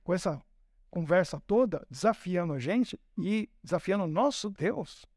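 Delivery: low, steady and measured; a hint of solemn resolve; calm defiant David. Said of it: "Ele falou".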